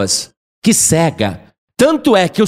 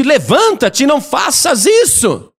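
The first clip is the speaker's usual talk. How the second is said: higher, indignant command; angry angel; 6 semitones higher, slower than usual. Acted. Angel rebuking the apostle kneeling before him, angry. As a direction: rebuke firmly, as an offended angel. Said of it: "o anjo ficou bravo".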